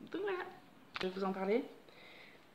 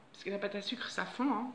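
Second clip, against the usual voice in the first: hiccuping; 5 dB quieter than usual. Real, not acted. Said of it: "Pardon, j'ai le hoquet".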